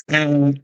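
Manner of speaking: put-on small half-hearted baby wail; mock baby cry. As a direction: imitate a baby's cry, quietly. Imitating baby's cries to parents.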